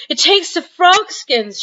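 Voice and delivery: high, loud, slow gasps; gasping. Acted. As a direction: gasp out the words. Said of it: "she gasped".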